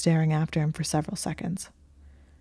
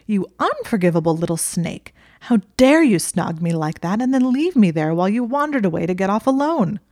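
furious; 3 semitones higher, 5 dB louder than usual. Acted. Furious reproach in quarrel.

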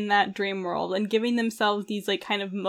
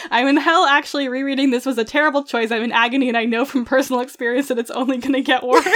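mock anguish; 2 semitones higher, 3 dB louder, faster than usual. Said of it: "I wrote myself a note".

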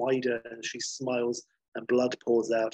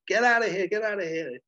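much higher, loud desperate cry; frantic yelling; 9 semitones higher, 4 dB louder than usual. Retold or imitated. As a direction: shout him away in panic. Lorna beating on Claude's chest.

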